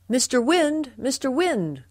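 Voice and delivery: high, loud repeated storybook call. A narrator's reading. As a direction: call out twice to get attention. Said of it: "called Father Mouse".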